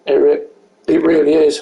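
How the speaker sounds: hiccuping mid-sentence; hiccups. Real, not acted. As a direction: let hiccups cut the words. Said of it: "I've got the hiccups now".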